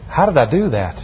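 low, subdued self-questioning; mild, hushed disbelief at your own risk; retold private dread. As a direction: recall lying awake, quietly asking yourself. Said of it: "Scares the willies out of me".

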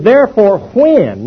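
slow down and lift WHEN for the listeners to mark; stress on WHEN. Shown as a demonstration. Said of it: "mark the word when".

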